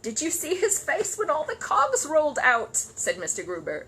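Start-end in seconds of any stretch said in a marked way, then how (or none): 0.0-2.8 laughing to tears. Acted. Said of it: "his face wet with tears".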